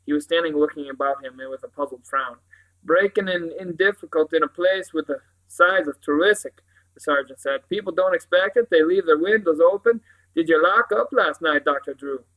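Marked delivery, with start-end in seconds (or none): 2.8-6.6 emphatic sergeant's voice; police sergeant, explaining. Acted. Sergeant explains the break-in, matter-of-fact. 7.7-12.2 loud, brisk sergeant's voice; police sergeant, questioning. Acted. Sergeant asks Doctor Drew about locking up, questioning.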